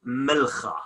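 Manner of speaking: milcha with a rasped kh; Dashti Ninwa pronunciation. Shown as a demonstration. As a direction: say milcha with a throaty ch. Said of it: "Dashti Ninwis".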